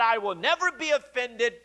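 bold, boastful vow; mildly boastful declaration, stressing each never; imitating a man sure of himself; Peter. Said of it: "so boldly and boastfully said".

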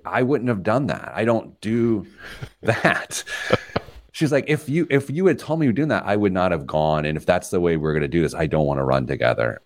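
a hint of an annoyed wife, fast; lightly voiced wife laying down the rule; wife scolding. Wife telling her husband she won't run with him, fast and mildly annoyed.

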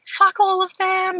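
high, slow mock defiance; defiant. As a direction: toss it off like nobody matters. Defiant thought retold during birth.

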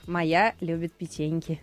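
low, slow monster voice; slow, low and dopey cookie monster. Retold or imitated. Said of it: "Как говорил этот самый в улице Сезам Коржик". (низкий медленный голос Коржика)

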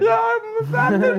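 very high, loud, drawn-out cartoonish captain; hammed-up falsetto impression, stretched out; Emo Philips. Overdoing the captain's introduction, exaggerated falsetto voice. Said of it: "like an emo Phillips kind of Picard".

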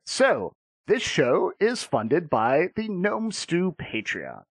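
measured announcer read of show credits; deliberate podcast ad read, dropping at phrase ends; sponsor read. Real, not acted.

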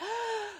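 sudden sharp hiccup; a real hiccup catching the breath. Real, not acted. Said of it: "I have the hiccups".

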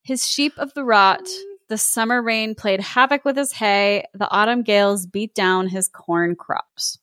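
measured storybook narration; story narration. A narrator's reading. Host reads a Scottish tale to co-host, story narration. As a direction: read it as a classic tale.

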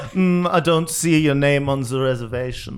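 haughty French waiter voice, laughing through; snooty maitre d'. Acted. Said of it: "a snooty maitre d'".

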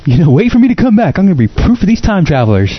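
high, squeaky old man imitation. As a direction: play a high-voiced old Mark Twain. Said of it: "It was too high".

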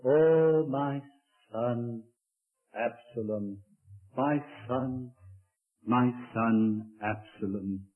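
weeping lament. Acted. Preacher voicing David weeping for his son. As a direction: grieve over the lost son. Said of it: "he wept".

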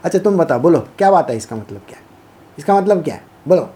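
lightly voiced goading questioner; a hint of a smug tester; challenging voice. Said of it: "talk like this".

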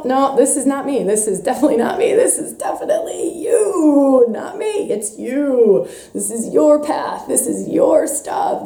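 mock defensive deflecting. Acts out her projecting inner voice.

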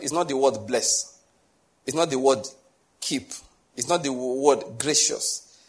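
not said firmly each time; stress on not. Shown as a demonstration. Preacher stressing not to his hearers, firm. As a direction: lean on not before each word. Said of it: "emphasis there".

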